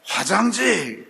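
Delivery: drawn-out mock holler; retold child's yell. Son demands toilet paper from the bathroom, imitated yell. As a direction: stretch it out like a kid yelling from another room. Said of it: "버럭 소리를 질러요".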